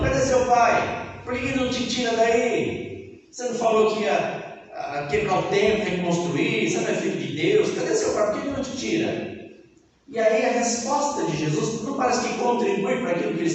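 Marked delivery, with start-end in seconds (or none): 0.0-9.4 higher, jeering taunts; mocking crowd. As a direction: scoff at him over and over. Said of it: "Eles não tão falando".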